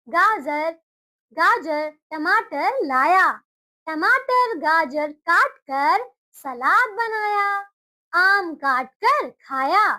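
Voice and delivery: slow, word by word, for the class to repeat; slow classroom read-aloud; slow reading to children. Shown as a demonstration. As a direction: read it out slowly so children can follow. Teacher reads sentences for repetition.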